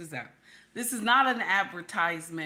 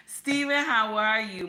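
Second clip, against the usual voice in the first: excited greeting; 3 semitones higher, 7 dB louder than usual. Real, not acted. Greeting chat viewers.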